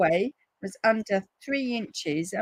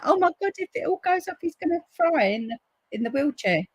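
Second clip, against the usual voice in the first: much higher, fast panicked fear; 9 semitones higher than usual. Retold or imitated. To herself, fearing Paul fries in his wheelchair, panicked. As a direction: panic that her husband will get electrocuted. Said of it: "And I'm like".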